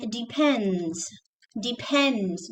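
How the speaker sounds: "depends" with a puffed P; clear P. Shown as a demonstration. Teacher showing students, clear P in "depends". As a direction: slowly model "depends" with P, not B. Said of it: "not depend".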